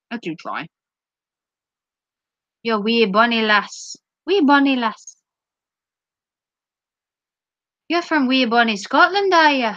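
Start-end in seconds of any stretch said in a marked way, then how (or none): 2.6-9.7 amateur mock Scottish; lightly put-on Scottish lilt; attempted Scottish accent. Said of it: "Sort of like that".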